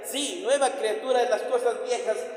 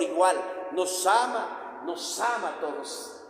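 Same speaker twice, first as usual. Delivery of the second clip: tender; 5 semitones lower, slower than usual. Acted. Preacher softens on God's love.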